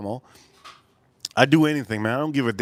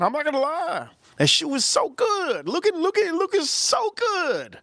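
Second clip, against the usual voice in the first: mock rave. Raving about the duck.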